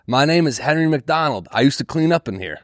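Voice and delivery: a hint of a stranger repeating his name; old man's plea. Comic re-imitates the old man insisting on his name, lightly voiced. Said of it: "He goes".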